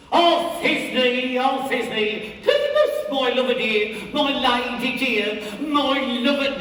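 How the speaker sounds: high, squeaky falsetto lady voice; mock Thisbe in a tiny high voice; monstrous little voice. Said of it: "I'll speak in a monstrous little voice".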